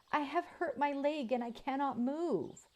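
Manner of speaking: high, pitiful calf voice; wounded calf cry. Acted. Robot mimics a wounded calf to lure wolves, pitiful. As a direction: plead like a helpless calf. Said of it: "crying out in a sad voice of a wounded calf".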